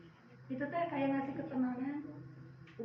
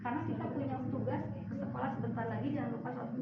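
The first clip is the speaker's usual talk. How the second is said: calm but firm; faster than usual. Shown as a demonstration. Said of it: "bagus, tapi ibu tegas".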